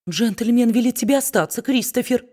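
usual speaking voice

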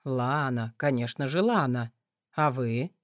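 low lazy male voice; smug man. A narrator's reading. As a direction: toy with the name lazily. Man corrects the name, amused.

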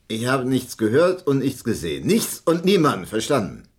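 forceful threatening insistence; heated denial. Acted. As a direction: hammer home that he saw nothing. Witness insists he saw nothing.

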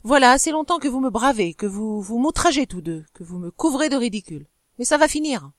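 angry rant that keeps building; working himself up. Acted. Husband ranting at his wife, building anger. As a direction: whip himself into fury. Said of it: "en s'irritant lui-même par la violence de son langage".

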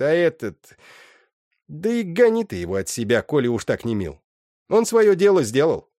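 high, loud scolding mother's voice; mother Agna scolding her weeping daughter, shrill and loud; scolding old mother. Acted.

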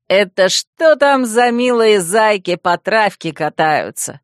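loud, slow mocking call from afar. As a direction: call out teasingly across the lawn. Vemut calls out across the lawn. (насмешливый оклик издалека)

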